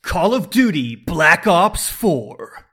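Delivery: slow, drawn-out trailer announcer; movie voiceover guy. Pretend. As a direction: boom it out like a trailer voice. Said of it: "trying to do the voiceover guy".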